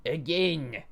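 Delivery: high, loud screamed order. A narrator's reading. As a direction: scream it, foaming with frenzy. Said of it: "they screamed".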